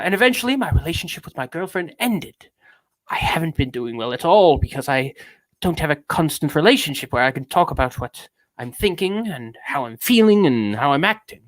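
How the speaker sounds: affected British confessional reading; mannered British delivery; British accent. Acted. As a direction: go back into a theatrical British voice. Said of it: "I'm going back to British now".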